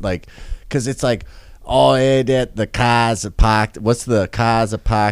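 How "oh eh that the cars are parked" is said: put-on Boston accent. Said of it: "break down the New England accent".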